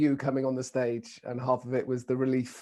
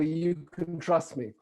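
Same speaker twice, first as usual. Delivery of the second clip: lightly shown lovely British accent; 4 dB quieter, slower than usual. Shown as a demonstration. Speaker showing an audience a trustworthy phrase, British accent. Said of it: "with this lovely British accent".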